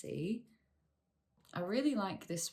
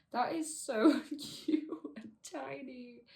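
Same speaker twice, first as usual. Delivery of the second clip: laughing coo; 6 semitones higher, 3 dB louder than usual. Real, not acted. Laughing at a tiny plant.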